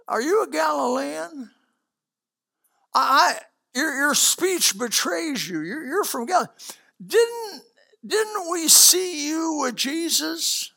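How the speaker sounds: put-on a servant girl accusing Peter of being with Jesus. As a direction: poke at him like a suspicious servant girl. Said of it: "servant girls over there to say".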